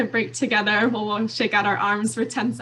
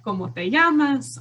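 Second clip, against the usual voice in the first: lightly voiced playful puppet, a bit higher; a hint of a silly puppet voice; 4 semitones higher, 4 dB louder than usual. Shown as a demonstration. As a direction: let the puppet pop up and greet the child. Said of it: "the puppet kind of pop out".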